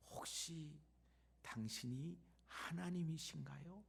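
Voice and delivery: put-on soft, half-whispered old woman's question; quiet retold question. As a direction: ask it hushed, almost under the breath. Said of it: "조용히 말을 합니다". (조용히 속삭이듯 묻는 말투)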